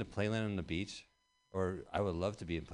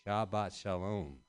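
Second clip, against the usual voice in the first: slow mock greeting; slower than usual.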